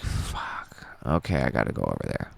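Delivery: soft unvoiced whisper; whispered curse. Alone after no one answers, whispering an urgent decision. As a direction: breathe it to yourself, urgent. Muttering to himself, alarmed.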